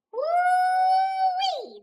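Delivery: gleeful high yelp; excited whoop. Real, not acted. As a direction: whoop at the drama. Reacting to trouble in the story.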